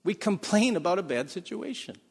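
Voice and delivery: ordinary talk, nothing marked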